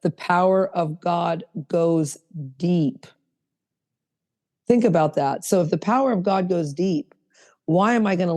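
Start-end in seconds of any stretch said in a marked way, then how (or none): 0.0-3.0 each word drawn out slowly; slow down and let every word land; slow, reverent emphasis; slow, weighted repeat. Shown as a demonstration. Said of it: "Remember, words matter".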